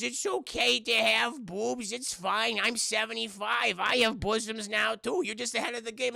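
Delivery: put-on old Whitey reassuring the boy; old man comforting. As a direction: soothe him like a kindly grandpa. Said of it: "Whitey says".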